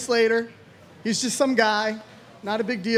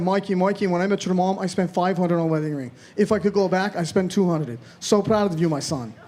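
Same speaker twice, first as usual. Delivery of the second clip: proud dad voice; 3 semitones lower than usual. Retold or imitated. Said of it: "my dad was so proud. He said".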